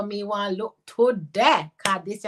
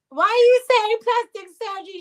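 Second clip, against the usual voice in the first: reading a comment; 12 semitones higher, 8 dB louder than usual. Retold or imitated. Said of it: "Nicholas said".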